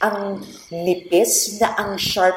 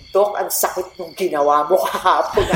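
laughing scold; 3 semitones lower than usual. Retold or imitated. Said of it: "sinita ko talaga siya".

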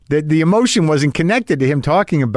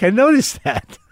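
pitched way up, wry and knowing; knowing reply; 9 semitones higher than usual. Retold or imitated. Host teasing Jo Koy about hiding emotion, wry and high. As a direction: tease him that you caught it. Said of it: "And I'm like".

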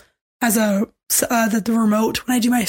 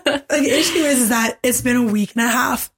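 hoarse, barely-there voice; raspy voice from being sick; lost voice. Real, not acted. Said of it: "I have no voice still".

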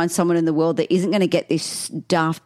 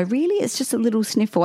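higher-pitched mild scoff; dismissive sceptic; 5 semitones higher than usual. Retold or imitated. Co-host quoting COVID sceptics, dismissive tone. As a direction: play it down lightly, pitch lifted. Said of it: "people out there that go".

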